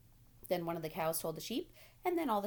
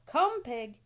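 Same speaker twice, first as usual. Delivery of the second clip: farmer coaxing; 7 semitones higher, 8 dB louder than usual. A narrator's reading. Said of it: "said Mister Zuckerman".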